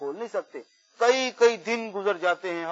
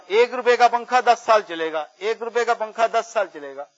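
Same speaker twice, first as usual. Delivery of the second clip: raised, repeated sales cry; imitated street hawker; 3 semitones higher, 4 dB louder than usual. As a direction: pitch it like a fan seller. Street seller hawking fans. (پنکھے والے کی نقلی صدا)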